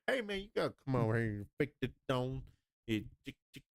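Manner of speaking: fast-talking imitation shrimp boat captain. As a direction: rattle it off, breaking into clicks. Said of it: "Your brother is the shrimp boat captain".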